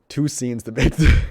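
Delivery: booming restart that falls apart into laughter; loud burst, then breaking up. Real, not acted. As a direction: come back in loud and lose it mid-line.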